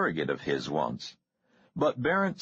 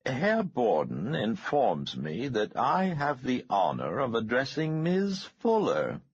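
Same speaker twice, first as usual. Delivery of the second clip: smooth as margarine; 7 semitones higher than usual. A narrator's reading. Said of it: "in a voice smoother than melted margarine".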